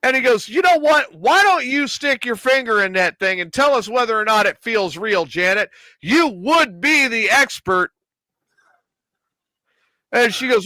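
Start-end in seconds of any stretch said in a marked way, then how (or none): 0.5-7.9 imitating a boss needling an employee; pointed, emphatic retold challenge; taunting challenge. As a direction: throw down a sarcastic dare, pitch lifted.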